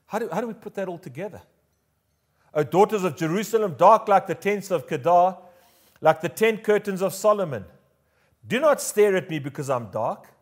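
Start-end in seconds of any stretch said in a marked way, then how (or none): 2.5-10.3 slightly raised, declamatory verse reading; measured Bible recitation with some lift; scripture reading. Acted. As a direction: read it out like poetry from the pulpit. Reads scripture aloud.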